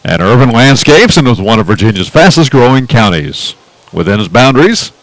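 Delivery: lightly put-on radio announcer read. Announcer reads county facts to his partner, radio voice. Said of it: "Should I go into my radio voice?".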